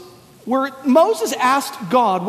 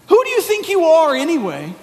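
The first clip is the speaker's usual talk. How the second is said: challenging retort; 5 semitones higher than usual. Retold or imitated. Men challenging Jesus.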